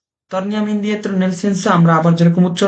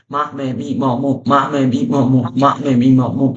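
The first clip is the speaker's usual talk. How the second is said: rapid syllable drill; 2 semitones lower than usual. Shown as a demonstration. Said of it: "এভাবে বলতে হবে".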